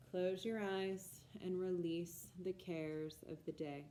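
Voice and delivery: measured, projected instruction with pauses between phrases; guided Yoga Nidra. Acted. Teacher guiding listeners into lying still for Yoga Nidra, guided meditation delivery. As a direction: lead a relaxation practice in clear, deliberate phrases.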